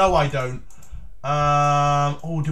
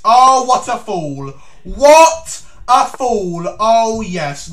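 gloating mock; 6 dB louder, much slower than usual. Real, not acted. Mocking opponent's blunder.

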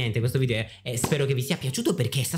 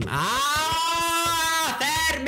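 very high, drawn-out shriek; exasperated scream; much slower than usual. Real, not acted. Host yelling at misbehaving players, long high exasperated scream. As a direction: scream at them to stop, voice shooting way up.

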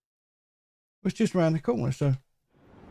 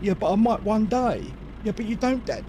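put-on bickering dad and kid; 7 semitones higher than usual. Acts out escalating argument with kids.

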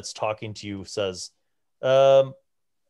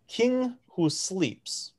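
slow, higher-pitched giant in halting pidgin; broken Common; 5 semitones higher, much slower than usual. Acted. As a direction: draw out each foreign word slowly. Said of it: "returns to the rest of you guys in common".

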